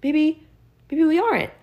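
high, squeaky mock musing. Mocking a Bible reader with a high silly voice. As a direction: ridicule them with a silly high voice. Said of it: "and be like".

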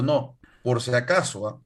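slow, emphatic mock lecture; retold indignation. Korean YouTuber setting viewers straight on the two Koreas, indignant. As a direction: spell it out slowly, imitating an indignant YouTuber. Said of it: "se amargó".

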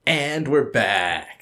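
slow drawn-out announcement; grand return. Acted. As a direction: drawl it like a big comeback. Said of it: "you say it as though we've been gone for".

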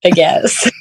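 a shy laugh through the words. Real, not acted. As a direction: laugh it off lightly. Asked about her accent.

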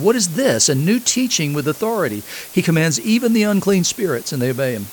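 amazed crowd. Acted. Amazed crowd quoted in the reading.

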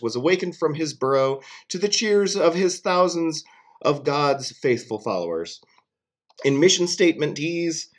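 loud proclamation; town crier. Pretend. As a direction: announce it like a herald. Mock official proclamation.

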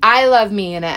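high, eager gush; about to show her husband the jumper, eager and excited. Retold or imitated. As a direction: bubble over with anticipation. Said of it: "So I was, like, so excited".

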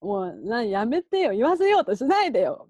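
a hint of tears, rising in protest; mock tearful plea. Comedian begging his senior not to make him say it, mock tearful. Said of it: "ちょっと泣いてるみたいな感じで".

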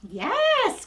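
high-pitched praise word; high yes. Real, not acted. Trainer marking the poodle's good trade, high. Praising dog mid-play.

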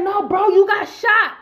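loud, high, emphatic insistence; urgent retold exclamation; alarmed correction. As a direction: imitate a shocked boyfriend breaking bad news. Boyfriend breaks the news to her.

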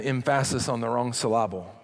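"emphasis" and "syllable" stressed on the second syllable; misplaced word stress. Shown as a demonstration. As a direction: say "emphasis" as em-FA-sis, "syllable" as syl-LA-ble.

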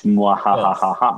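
spoken evil laugh; mock villain cackle; mad scientist laugh. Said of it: "keeping all of that for myself".

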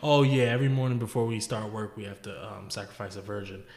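offhand, matter-of-fact reply; casual. Acted. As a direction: toss it off like an everyday routine. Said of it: "he says it so, so casually".

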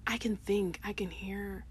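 soft unvoiced aside; whisper. Real, not acted. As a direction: breathe it out.

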